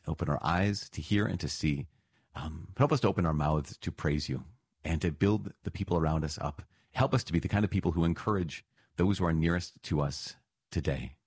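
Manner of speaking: steady, earnest prayer voice to God; closing prayer. Acted. Pastor praying for the congregation before the readings, earnest prayer. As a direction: pray it over the congregation, gently.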